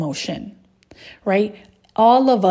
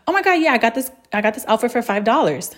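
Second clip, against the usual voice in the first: acted deflection, starting high then quickening; deflecting; 3 semitones higher, faster than usual. Woman brushing aside praise of her outfit, deflecting. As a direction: wave off the compliment, high at first. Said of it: "That is deflecting".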